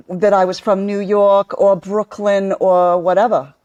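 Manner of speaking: put-on a lightly done Brooklyn accent, channeling her grandmother. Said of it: "you would have me fooled for sure".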